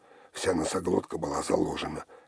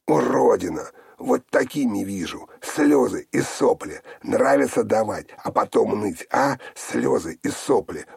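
frenzied screaming; 5 semitones higher, 8 dB louder than usual. A narrator's reading. Sister screams abuse while beating Olga, frenzied loud shouting.

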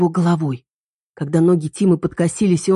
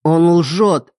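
shouted after her; 4 dB louder than usual. A narrator's reading. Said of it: "Миллер крикнул мне вслед".

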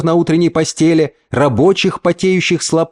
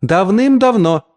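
higher, slow, cutting reply; curt retort; 7 semitones higher, slower than usual. A narrator's reading. Mother cuts the uncle off curtly. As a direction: snap it off at him. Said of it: "отрезала мать".

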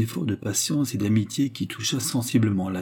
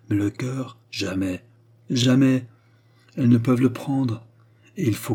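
impassioned outburst; 2 semitones higher than usual. Acted. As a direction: pour out the bitterness of a lonely queen.

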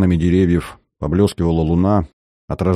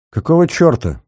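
a sharp, higher cursing outburst; swearing; 10 semitones higher than usual. A narrator's reading. Soldier swatting mosquitoes, cursing in annoyance. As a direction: spit out the curse, irritated. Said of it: "ругался Шлыков".

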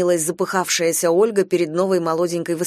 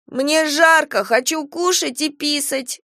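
put-on higher, childish complaining voice; a little boy who is tired of waiting; whiny toddler; 8 semitones higher, slower than usual. A narrator's reading. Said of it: "подал голос малыш". (малыш капризно жалуется)

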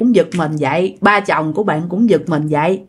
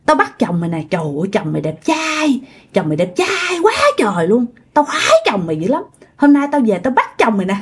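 cợt nhả, nham nhở. Retold or imitated. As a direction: tease gleefully, imitating a leering ghost. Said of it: "vừa cười nham nhở, nó vừa nói". (giọng nhái nham nhở, trêu ngươi)

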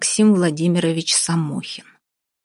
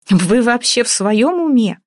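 raised, slow outraged demand; furious outburst; 6 semitones higher, 5 dB louder, slower than usual. Acted. Vasya blowing up at the nitpicking man, furious. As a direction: snap at him in a fury. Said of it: "взбеленилась Вася".

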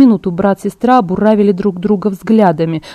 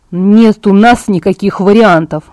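slow, firm, irritated refusal; 4 dB louder, slower than usual. Acted. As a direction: shut the idea down, annoyed. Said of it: "раздражённо заявил Эдвард".

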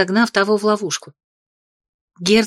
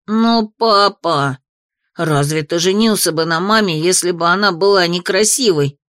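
indignant outburst. Acted. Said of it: "Возмущённо воскликнул Ники".

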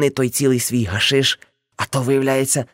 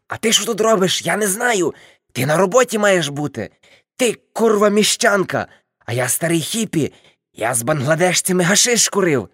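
put-on higher, pushy drunk retort; mock defiant uncle; 6 semitones higher than usual. Uncle arguing back at the aunt, mock drunk defiance. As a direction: bark back at her like a stubborn old hippie.

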